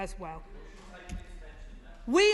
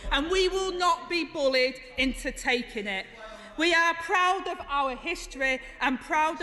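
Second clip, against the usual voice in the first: rousing Commons speech; heated parliamentary debate; 2 semitones higher than usual. Real, not acted. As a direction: speak up with defiant pride.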